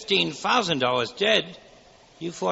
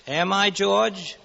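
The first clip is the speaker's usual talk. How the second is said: tag only; 3 semitones higher, 5 dB louder, slower than usual. Acted. Angel's knowing challenge.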